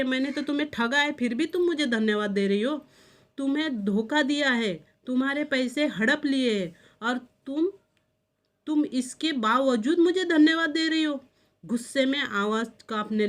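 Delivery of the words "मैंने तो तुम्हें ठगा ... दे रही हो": अंत तक ऊँचा होता गुस्सा, डाँटते हुए; बढ़ती झिड़की, आख़िर में ज़ोर से; scolding. Acted. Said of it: "डांट के बोल रहे हैं". (ठगी गई जूलिया को डाँटता मालिक, बढ़ता गुस्सा)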